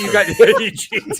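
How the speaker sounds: high, laughing jab at a friend; laughing tease. Real, not acted. Host teases Wilmy about cheating in games, laughing. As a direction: chuckle it out as a playful accusation.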